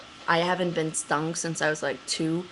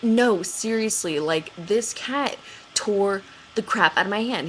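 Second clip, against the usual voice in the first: insistent; 3 semitones higher than usual. Retold or imitated. Insisting to Ryan the scratch is serious. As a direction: insist he take you seriously.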